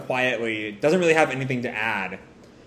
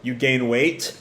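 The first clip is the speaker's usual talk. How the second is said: casual, teasing taunt; slower than usual. Acted. Code greeting Kawaki after cornering him, taunting. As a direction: needle an old foe lightly. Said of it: "And Code just taunts him".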